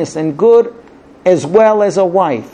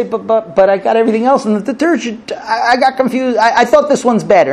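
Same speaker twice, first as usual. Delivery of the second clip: stammering, slightly higher self-defence; flustered excuse; 4 semitones higher than usual. Acted. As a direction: play a husband fumbling for an excuse. Husband flustered, defending his shopping.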